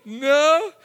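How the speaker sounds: a short, loud no to the bullies; firm no. Retold or imitated. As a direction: refuse them firmly. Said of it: "I was like".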